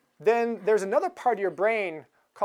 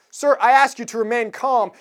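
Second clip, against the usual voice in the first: stern warning; 2 semitones higher, 6 dB louder than usual. Retold or imitated. Marshal's final warning.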